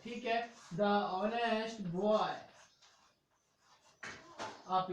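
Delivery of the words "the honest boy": put-on "the honest boy" said slowly; slow recap demo. Shown as a demonstration. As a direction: spell it out slowly once more. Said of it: "कहाँ पर दी बोला जाता है". ("the honest boy" धीरे से दोहराएं)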